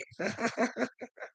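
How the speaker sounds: high, soft trailing chuckle; real high giggle that fades out; laughing. Real, not acted. Laughing that he won't play the game, high soft giggle. Laughs at his own remark.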